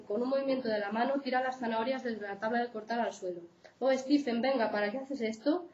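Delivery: steady read-aloud of a true account; reading a case aloud. Acted. Lecturer reads a real abuse case to students, read-aloud. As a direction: read the book passage to the class, evenly.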